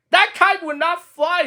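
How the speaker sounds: high, mocking little bird voices; a robin heckling from the bush, high and mocking; jeering robins. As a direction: jeer at Toad like a cheeky robin. Robins jeer at Toad.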